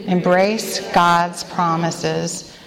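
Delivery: slow, weighty reading of the letter's phrase; slow recited phrase. Shown as a demonstration. Leader introducing the acrostic letter to the women, slow and deliberate. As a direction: lay each word down slowly for the room to echo. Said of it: "Say that with me".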